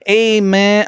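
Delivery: a hint of a Cholo accent, friendly. Imitating a Cancun dealer in a light Cholo accent. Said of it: "like, a Cholo accent".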